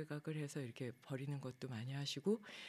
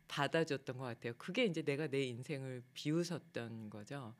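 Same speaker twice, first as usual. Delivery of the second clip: ordinary delivery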